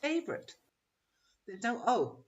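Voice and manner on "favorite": 'Favorite' squeezed to FAV-rit, middle vowel dropped; two-syllable favorite. Shown as a demonstration. Teacher showing how it sounds when we say it, two-syllable favorite. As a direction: say 'Favorite' in two quick beats, high and soft. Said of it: "Two syllables".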